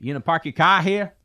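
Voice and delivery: high, loud goofy character voice; silly put-on voice. Co-host voices the British ship as a pushy parking attendant. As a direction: ham up a pushy stranger.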